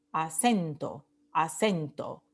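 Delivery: "acento" with the middle syllable CEN stressed, falling. Shown as a demonstration. Teacher modelling the word for practice, "acento" stressed on CEN. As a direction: say "acento" with weight on CEN, then let it drop. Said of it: "practicar un poco con este concepto del acento tónico".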